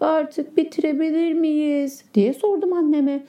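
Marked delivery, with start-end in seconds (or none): 0.0-2.0 slow, grumbling whine. Acted. Tired boy grumbling at his mother in the heat, slow and whiny. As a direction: drag it out like a tired kid.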